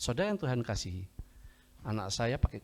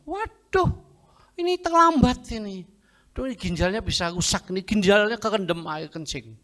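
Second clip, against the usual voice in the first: high-pitched, loud dismay; acted alarm, starting very high and easing down; alarmed doctor; 9 semitones higher, 5 dB louder than usual. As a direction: exclaim in shock at bad news. Acted doctor alarmed by late case.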